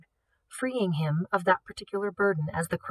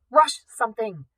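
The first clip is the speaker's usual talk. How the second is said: urgent plea; 4 semitones higher, 5 dB louder than usual. Acted. Urging Simon in alarm.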